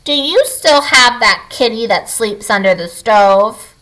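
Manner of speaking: a lightly voiced little troll, a hint of crackle; crackly troll voice. Little troll asking Kiri about the kitty, lightly crackly. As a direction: ask like a sneaky little troll. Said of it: "in a high, crackly voice".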